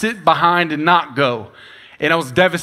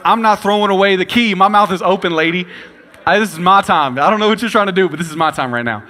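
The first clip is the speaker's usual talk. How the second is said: put-on defiant kid talkback; 3 semitones higher than usual. Defiant kid talking back to teacher.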